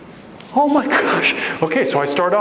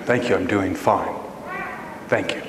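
much lower, softer mechanical reply; hollow, subdued; 9 semitones lower, 6 dB quieter than usual. Acted. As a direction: recite it like a defeated script. Forced answer after putting on mask.

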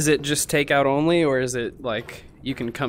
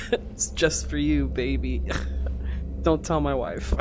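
sexy voice; 3 semitones higher than usual. Pretend. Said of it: "My sexy, sexy voice".

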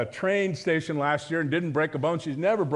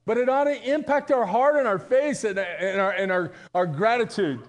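preaching; 4 semitones higher than usual. Real, not acted. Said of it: "I think I'm preaching".

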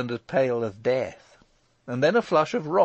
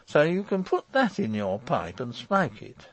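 high, stammering refusal; flustered defiance; 7 semitones higher than usual. A narrator's reading. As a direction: refuse hotly, starting high and coming down. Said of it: "he cried, with another deep flush".

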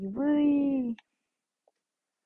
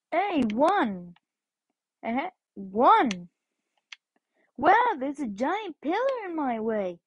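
a lightly raised, bouncy cartoon hero voice; Sonic impression; 2 semitones higher than usual. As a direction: dub the hedgehog with a hint of cheer. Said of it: "voice myself as Sonic".

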